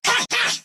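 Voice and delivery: two short high attack yelps; quick, high-pitched fighting shouts; combat exertion cries. Acted. Combat exertion in game lines.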